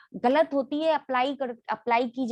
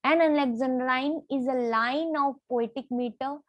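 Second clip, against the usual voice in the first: slow dictation; much slower than usual. Shown as a demonstration. Teacher dictating a definition.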